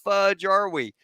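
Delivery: high-pitched, mock-irate comeback; exasperated demand. Gunny argues back at navigator, retold.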